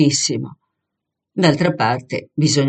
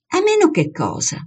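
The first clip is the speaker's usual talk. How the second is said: high-pitched start, falling sharply; pressing question. A narrator's reading. Girl pressing her hesitant friend to finish, questioning. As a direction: press "cosa" as a demanding question.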